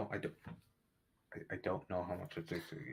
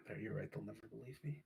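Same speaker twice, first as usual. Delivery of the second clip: hushed whisper; 6 dB quieter than usual. Acted. Sighing, hushed resignation.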